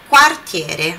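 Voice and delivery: quartiere with the U said out, kwar-; U pronounced. Shown as a demonstration. Teacher showing the spoken U in quartiere, careful. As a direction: sound the U in quartiere clearly. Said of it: "aquele U é sempre pronunciado".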